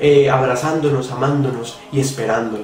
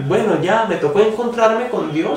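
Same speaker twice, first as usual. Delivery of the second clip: careless latecomer; 7 semitones higher than usual. Retold or imitated. Imitating a last-minute convert.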